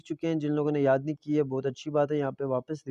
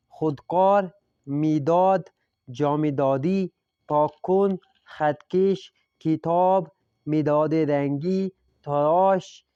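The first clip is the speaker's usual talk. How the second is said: careful model reading; 3 dB louder, much slower than usual. Shown as a demonstration. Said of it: "لہجے کا دھیان رکھیے گا۔".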